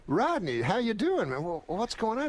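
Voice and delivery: high-pitched retold astonishment; completely shocked. Saget finds sick friend at the club, shocked. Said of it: "he was, like, completely shocked".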